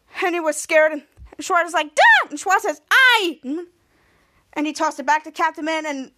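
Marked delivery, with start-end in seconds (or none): 1.9-2.3 high, loud imitated yell; mock outcry. Retold outcry as grenade is thrown. 2.9-3.4 high, loud imitated cry; mock yell. Retold outcry as grenade is thrown.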